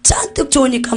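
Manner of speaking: lightly voiced Jeolla Korean dialect. Shown as a demonstration. Preacher showing listeners a local phrase, Jeolla dialect. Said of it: "전라도 말로".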